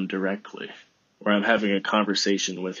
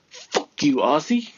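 mock insult; 5 semitones higher than usual. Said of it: "I'm joking".

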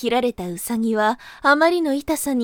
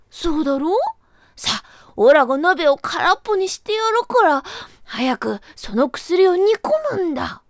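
pushy rabbit; 5 semitones higher than usual. Acted. Rabbit urging Taro.

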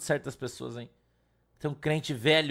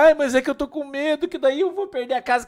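imitating fearful woman; 7 semitones higher, 5 dB louder than usual. Woman's fearful reply retold.

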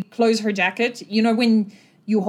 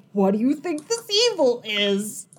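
quoting Darius; 2 semitones higher than usual. Retold or imitated. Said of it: "Darius very clearly said".

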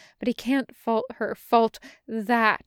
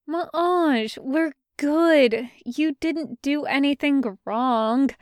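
lightly voiced Jester; 5 semitones higher, 5 dB louder than usual. Jester reassuring Bren.

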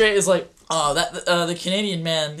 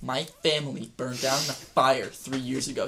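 chill deadpan; 5 semitones lower, 5 dB quieter than usual. Retold or imitated. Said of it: "he'll straight up say it so chill".

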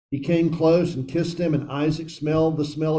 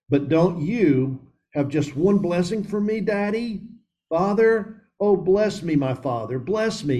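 high, pleading Daddy, cracking like a sob; a son pleading in tears, lightly acted; sobbing plea; 5 semitones higher than usual. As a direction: beg your father through mild sobs. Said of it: "Esau sobbed inconsolably".

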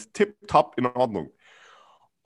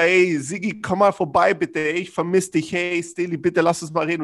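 pleading invitation; 4 semitones higher than usual. Retold or imitated. Friend keeps inviting him over, eager pleading voice. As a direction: coax a friend to come over, ey.

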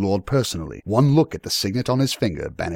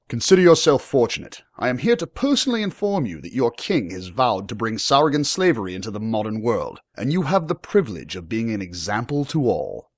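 raised, declaring lordly voice; stern young lord; 5 semitones higher than usual. Acted. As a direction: pronounce his fate with authority.

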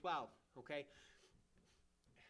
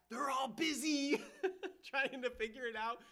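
mocking laugh; 8 semitones higher, 6 dB louder than usual. Mocking rebels busy scheming.

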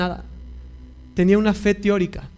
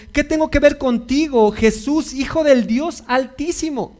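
retold demon shout; 4 semitones higher, slower than usual. Preacher voicing the demon crying out to Jesus, a mild mock shout. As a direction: voice the demon crying out, only lightly. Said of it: "gritando a gran voz".

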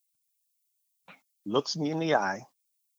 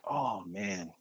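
whispered, voice dropped out; stunned whisper; 4 semitones lower, 6 dB quieter than usual. Retold or imitated. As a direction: breathe it out in shock. Reacting to mom's leukemia diagnosis.

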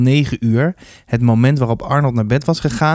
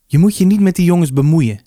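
earnest warning, pitched higher; 6 semitones higher, 4 dB louder than usual. A narrator's reading. Mother to son about those boys, earnest warning. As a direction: urge him seriously, in a raised pitch. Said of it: "zei ze ernstig".

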